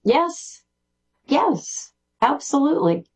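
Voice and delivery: high, bright burst of agreement; eager yes. Real, not acted. Guest eagerly agrees with the host about teaching through art, pitched high. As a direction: agree with real delight.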